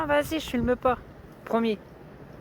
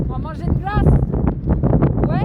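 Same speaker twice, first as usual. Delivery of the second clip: calling out; 7 semitones higher, 8 dB louder than usual. Real, not acted. Repeats loudly to someone.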